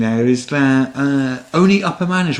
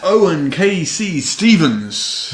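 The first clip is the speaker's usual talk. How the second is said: slow, booming name introduction; boxing ring announcer; 3 semitones higher, much slower than usual. Pretend. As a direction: announce him like a title fight. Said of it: "I'm still doing the boxing announcer voice".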